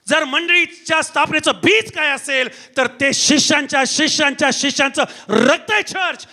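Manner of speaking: insistent, ringing sermon delivery; forceful preaching. Acted. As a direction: drive each accusation home in parallel phrases.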